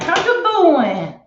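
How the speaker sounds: put-on high, loud, drawn-out Stallone-style accent; Sylvester Stallone. Showing viewers the accent she breaks into, Stallone imitation. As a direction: belt out an imitation of his accent, slowly. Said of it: "I break out in his accent".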